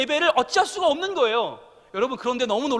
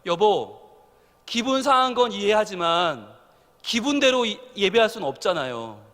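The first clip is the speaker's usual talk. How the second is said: gentle wife; 3 semitones lower than usual. Retold or imitated. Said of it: "저희 집사람이 옆에서 그러는 거예요".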